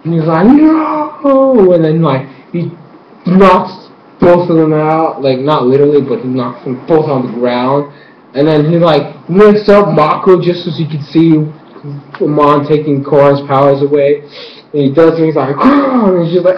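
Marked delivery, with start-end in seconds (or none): 0.5-1.7 high, drawn-out wail; imitated cry of "no". Acts out Amon's cry. 15.6-16.1 short high "ah"; imitated cry. Imitates the villain's move.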